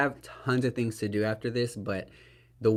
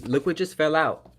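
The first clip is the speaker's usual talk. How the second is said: higher and louder, caught off guard; surprised; 7 semitones higher, 6 dB louder than usual. Real, not acted. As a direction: blurt it out as something drops. Something falls off the chair.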